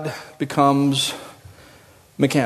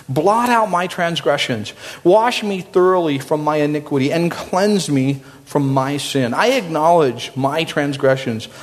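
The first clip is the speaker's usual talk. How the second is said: scripture reading. Acted. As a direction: read it as a heartfelt prayer. Reads Psalm fifty-one aloud.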